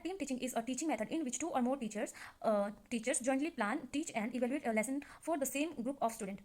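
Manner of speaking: reads the definition word by word, very slowly; measured classroom dictation pace; slow dictation reading. Shown as a demonstration. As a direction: dictate it slowly so students can copy it down.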